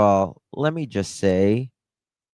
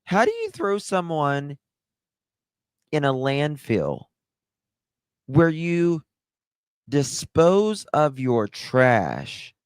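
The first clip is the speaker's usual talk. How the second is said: higher, outraged question that slows down at the end; worked up; 5 semitones higher than usual. Real, not acted. To her viewers, outraged, pitch raised. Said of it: "I just get so worked up".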